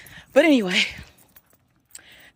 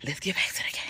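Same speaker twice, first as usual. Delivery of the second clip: whispering; 3 semitones lower, 5 dB quieter than usual. Real, not acted. Whispering aside to viewers.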